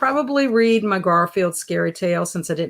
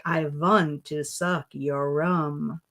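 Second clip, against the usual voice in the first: put-on Transylvanian accent; 3 semitones lower, 4 dB quieter, slower than usual. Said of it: "talk in a vampire voice".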